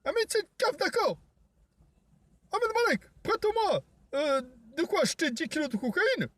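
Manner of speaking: high, shrill-free cartoonish yelling voice; high squeaky voice. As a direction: pitch way up like a cartoon. High-pitched character voice.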